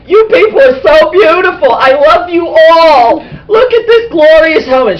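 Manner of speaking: high, loud, hammed-up rapture; gushing adoration. Voices the head thrilled with helmet.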